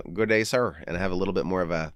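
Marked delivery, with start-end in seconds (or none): 0.0-0.8 playful humor mode. Shown as a demonstration. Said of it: "when I'm getting into humor mode, sometimes I go".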